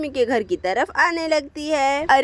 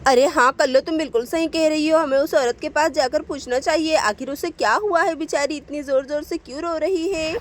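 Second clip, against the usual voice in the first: gossiping villager. Acted. Village woman pointing out the crying stranger, pitying. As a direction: cluck with pity at the stranger.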